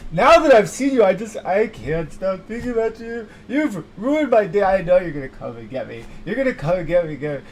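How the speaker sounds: hammed-up terror of being taken; paranoid panic. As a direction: spiral into dread.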